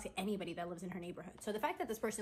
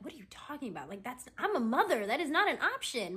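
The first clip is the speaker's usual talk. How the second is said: mock indignant pushback, ending higher; indignant refusal; 4 semitones higher, 3 dB louder than usual. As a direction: voice rising into emphatic protest. Acts out Rucker's indignant refusal.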